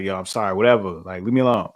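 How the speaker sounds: mildly dismissive, low mock apology; grudging apology. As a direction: toss off a reluctant sorry to be left alone. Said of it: "you don't wanna get an apology".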